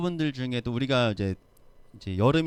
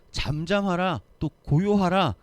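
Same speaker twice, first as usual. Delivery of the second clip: a touch louder, firm command to the sea; commanding rebuke; 6 semitones higher, 5 dB louder than usual. Retold or imitated. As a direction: order the wind to be still. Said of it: "바람을 꾸짖으시면서". (바람에게 단호하게 명령하는 목소리)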